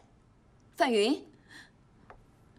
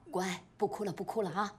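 softer, lower coaxing; gentle soothing; 3 semitones lower, 6 dB quieter than usual. Acted. Aunt comforts her crying niece, gentle soothing. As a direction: hush her tears gently.

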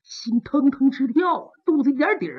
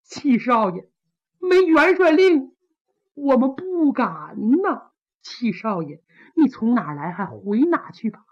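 calling down. Acted. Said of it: "冲着下边喊".

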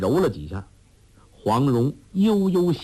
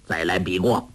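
put-on angry old man; 5 semitones lower than usual. A narrator's reading. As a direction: grumble and demand a rematch. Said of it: "怒道". (恼怒地要求再比)

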